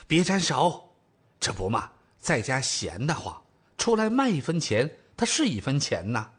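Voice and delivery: lightly voiced thrifty older mother; chatty mum explaining herself; older mother, brisk. Mother waves daughter off her stall, mildly fussy.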